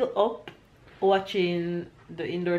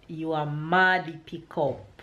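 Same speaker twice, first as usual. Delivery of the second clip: Jamaican patois; slower than usual. Shown as a demonstration. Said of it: "I'm going to tell him again".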